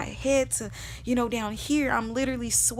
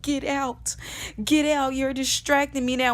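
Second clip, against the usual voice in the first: retold exasperated command; urgent dismissal; 3 semitones higher, 4 dB louder than usual. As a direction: order a friend out mid-crisis. Retold order to distracting friend.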